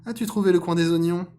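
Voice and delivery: loud, high, rising call; searching fox. Acted. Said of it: "questionna le renard".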